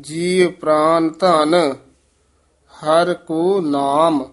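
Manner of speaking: long pause after "ਧਨ", then "ਹਰ ਕੋ ਨਾਮ"; slow "ਹਰ ਕੋ ਨਾਮ" after a clear pause; marked phrase pause. Shown as a demonstration. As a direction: break the line after "ਜੀ ਪ੍ਰਾਨ ਧਨ". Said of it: "ਇਹ ਵਿਸਰਾਮ".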